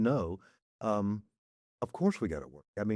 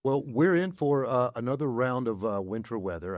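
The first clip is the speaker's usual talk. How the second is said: weather report. Real, not acted. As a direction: sound like a TV weatherman. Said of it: "I sound like a weatherman".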